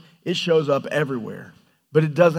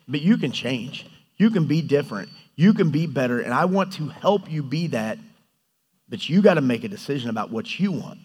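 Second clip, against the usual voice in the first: calm God; 3 semitones lower than usual. Acted. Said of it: "And God's like".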